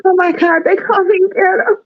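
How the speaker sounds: high-pitched mock whimper; hammed-up weepy whine; mock crying. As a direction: imitate a tearful, wounded complaint. Mimicking the crying cast member's complaint.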